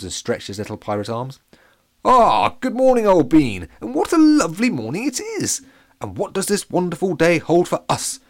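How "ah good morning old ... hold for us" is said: high, loud and gushing posh soldier; unnaturally enthusiastic. Acted. Captain Pancake greets grumpy Pete, high, loud and overjoyed. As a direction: overflow with jolly cheer, old chap. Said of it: "said the unnaturally enthusiastic Pancake".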